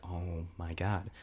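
slow, hushed whisper. Retold or imitated. Alone at night, glasses broke, slow dismayed whisper. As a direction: breathe it out so nobody wakes. Late night, family asleep.

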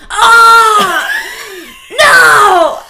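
high, loud scream of being shot; mock yell. Reenacting her boyfriend screaming in his sleep, loud high yell. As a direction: yell like he's getting shot. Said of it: "he would just be like".

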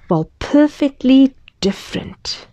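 whispered title, hushed and mysterious. Acted. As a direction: breathe the title like a secret.

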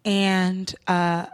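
low, soft, measured lecture; calm earnest speech. Retold or imitated. To the cab driver, a soft mock-earnest speech. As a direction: deliver a calm life-class sermon. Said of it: "very chill words".

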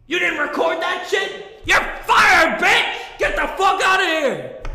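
mock furious producer yelling. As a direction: tear into him like an angry boss. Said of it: "they say".

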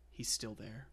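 hint of a horror film line; ominous movie quote. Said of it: "trying to pick quotes and stuff".

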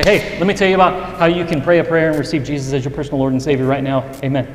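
quick pushy salesman patter; mock pushy evangelist pitching a stranger. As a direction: rattle off the gospel like a hard sell. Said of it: "gonna come off as a sales pitch".

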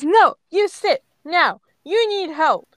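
high, loud, slow ordering; insistent command. A narrator's reading. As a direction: scold with each word leaned on. Ash insists on Grape sitting.

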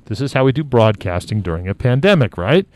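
muffled through a face mask. Real, not acted. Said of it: "speaking through my face mask, which is why it sounds so muffled".

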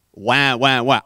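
dismissive imitation of whining; mocking blah-blah. Mocking sceptics who call it coincidence, dismissively. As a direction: wave the doubters away with noises. Mocks doubters' explanations.

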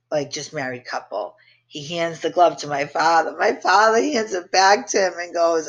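normal talking voice

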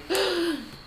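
high, drawn-in gasp; sharp gasp. Retold or imitated. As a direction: gasp in mock shock. Retelling the moment she snapped.

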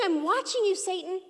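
mild warning voice. Retold or imitated. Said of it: "It's like he's saying".

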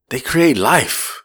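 very slow, drawn-out imitation; drunk philosophizing. Driver imitating his drunk passenger philosophizing, slow and weighty. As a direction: stretch it like a drunk sage. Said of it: "he goes, all he talked about".

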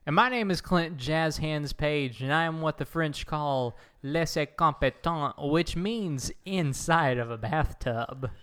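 speaking in a tiled bathroom; echoey bathtub sound. Real, not acted. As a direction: voice bouncing off bathroom walls. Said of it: "You sound a little bit more echoey than normal".

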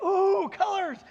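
high, loud ooh of amazement; acted wonder. Newly sighted man seeing colours, amazed. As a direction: marvel out loud as if just given sight. Acting first hour of seeing.

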